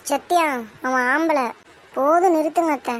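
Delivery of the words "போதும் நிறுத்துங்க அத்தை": loud, telling her to stop; heated command to stop talking; angry stop. Acted. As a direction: cut the aunt off firmly. Bride stops the aunt.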